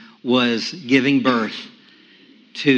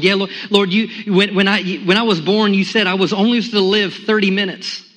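rising prayer cry; 6 semitones higher than usual. Retold or imitated. Crying out to God in prayer.

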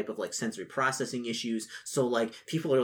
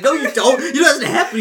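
much higher and louder, laughing; high laughing protest; 13 semitones higher, 12 dB louder than usual. Retold or imitated. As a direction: protest while cracking up. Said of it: "And he's like".

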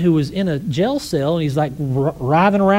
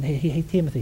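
gentle, no yelling; 3 semitones lower, 4 dB quieter, faster than usual. Retold or imitated. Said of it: "He didn't yell at him".

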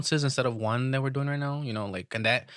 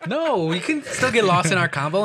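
laughing; 5 semitones higher, 5 dB louder, slower than usual. Real, not acted. Laughing at friend's joke.

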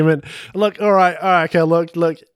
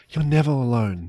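tender; 3 semitones lower than usual. Shown as a demonstration. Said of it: "you gotta change how you say it".

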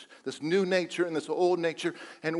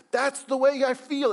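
higher, louder anguished confession; Paul's lament; 8 semitones higher, 4 dB louder than usual. Acted. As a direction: voice Paul's despair aloud. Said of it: "as he says".

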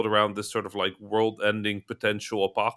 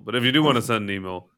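fast plug; faster than usual. Shown as a demonstration. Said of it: "send it to info".

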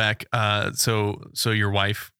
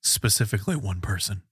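pleading husband; 8 semitones higher than usual. Retold or imitated. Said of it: "And then you go".

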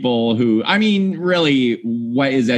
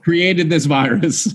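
mock accuser voice; 4 semitones higher, slower than usual. Mocking the commenter Dwayne.

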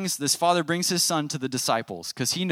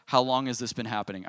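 unruffled, even-toned question; mildly calm Jesus; faster than usual. Acted. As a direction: ask it without any alarm. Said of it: "how calm Jesus is in this moment".

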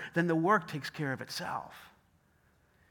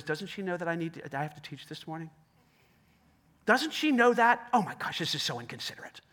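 grumbling inner dialogue. Retold or imitated. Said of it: "inner dialogue that I do".

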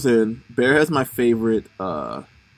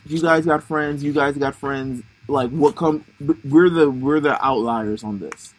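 put-on Rocky's-trainer accent. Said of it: "speaking like he's like Rocky's, like, trainer".

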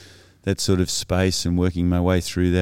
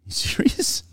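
stunned whisper. Retold or imitated. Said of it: "I'm there going".

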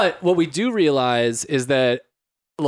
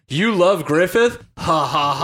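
Joker-style flip-out; 3 semitones higher, slower than usual. Retold or imitated. Retelling a character's sudden snap after all was chill, mock-maniac. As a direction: imitate a villain's unhinged, drawn-out taunt. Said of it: "Joker style flip out".

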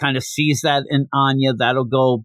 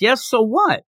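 dismissive Damien; 9 semitones higher than usual. Retold or imitated. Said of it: "He's shocked a bit and he goes".

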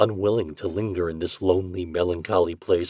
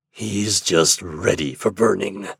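triumphant growl; slower than usual. Acted. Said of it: "with a growl of triumph".

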